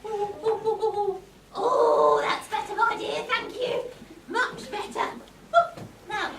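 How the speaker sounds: put-on low groaning old crone; croaky old witch. Old woman groaning sitting.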